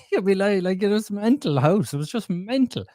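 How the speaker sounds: a rueful laugh through the words; laughing as he remembers the madness at home; laughing in disbelief. Real, not acted. Laughs recalling chaotic home.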